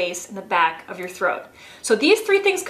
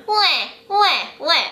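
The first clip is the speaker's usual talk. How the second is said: put-on high nasal baby wah; high mock baby cry; baby cry sound; 5 semitones higher, slower than usual. Shown as a demonstration. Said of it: "get that baby sound".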